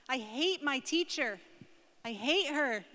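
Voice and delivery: put-on mildly angry child's complaint; slow, drawn-out outburst from an upset schoolgirl, lightly acted. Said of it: "She's so angry".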